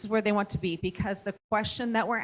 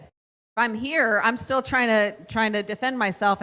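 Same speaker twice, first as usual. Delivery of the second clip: loud, slow emphasis; 4 semitones higher, 6 dB louder than usual. Shown as a demonstration. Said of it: "teacher shows a delivery".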